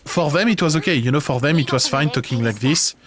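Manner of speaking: demonstrating a no-effort French accent in English; thick French accent. Shown as a demonstration. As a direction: speak English with heavy, unsoftened French pronunciation. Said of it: "French that do no efforts, I'm talking about people talking".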